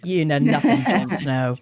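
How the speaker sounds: lightly put-on Sheffield accent. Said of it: "in a Sheffield accent".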